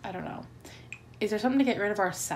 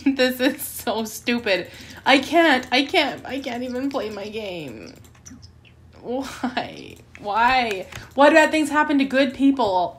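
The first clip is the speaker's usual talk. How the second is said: exasperated outburst; 3 semitones higher, 3 dB louder, slower than usual. Real, not acted. Raging at the game.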